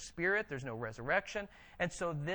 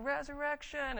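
higher, insistent one-word comeback; a hint of arguing Pharisees; mock Pharisee retort; 7 semitones higher than usual. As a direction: toss it back like in a shouting match. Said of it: "Pharisees saying".

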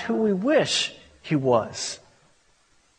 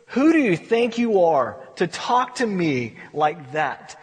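slow, weighty rebuke; a measured challenge to a complainer; God with attitude. Acted. God rebukes Job for complaining, with slow, mild attitude. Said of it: "You could almost hear the attitude".

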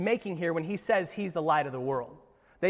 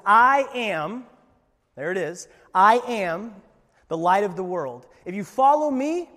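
ringing proclamation; 3 semitones higher, 8 dB louder than usual. Acted. Preacher voicing Jesus' bold claim.

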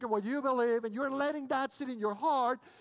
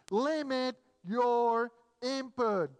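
emphatic point; 4 dB louder, much slower than usual. Real, not acted. Preacher hammers home the point.

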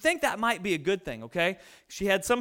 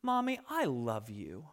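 put-on child's voice; 10 semitones lower, 8 dB quieter than usual. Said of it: "he goes".

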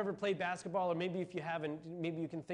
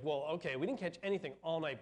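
sarcastic; 2 semitones lower, faster than usual. Retold or imitated. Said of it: "I hear him saying it sarcastically".

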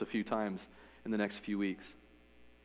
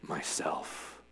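low, deep and soft, earth-shaking; 8 semitones lower, 10 dB quieter than usual. A narrator's reading. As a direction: let it rumble from below. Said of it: "deep and low, so that the whole earth shook".

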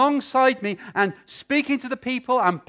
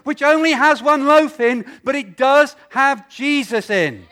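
preaching; 2 semitones higher than usual. Acted. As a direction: drive the point home from the pulpit. Preaching at full force.

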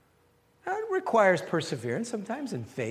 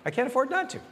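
American accent; 6 semitones higher, faster than usual. Shown as a demonstration. Pastor to congregation, playful American accent. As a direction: pitch lifted, in a light American accent on "not". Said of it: "You gotta say it with an American accent".

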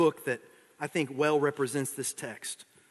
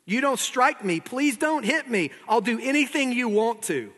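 high, pleading little man; trembling voice; 7 semitones higher than usual. Acted. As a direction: beg in mock terror. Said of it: "said the little man in a trembling voice".

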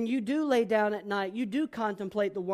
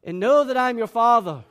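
firm fatherly rebuke; stern father; 3 semitones higher, 8 dB louder than usual. Retold or imitated. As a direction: lay down the law to a tantruming son. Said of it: "I have to look and say".

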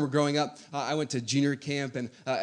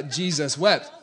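laughing; slower than usual. Retold or imitated. Reciting the verse while laughing.

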